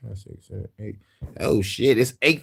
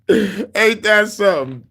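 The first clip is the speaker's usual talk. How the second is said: incredulous; 7 semitones higher, much slower than usual. Real, not acted. Marvels at the recommendation.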